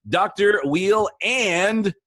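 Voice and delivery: smooth radio announcer read. Pretend. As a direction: intro like a radio host. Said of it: "I'm gonna do my best radio voice".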